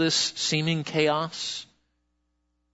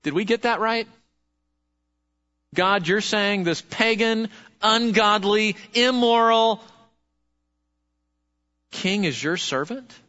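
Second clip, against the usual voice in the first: incredulous; 3 semitones higher than usual. Retold or imitated. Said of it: "And we go".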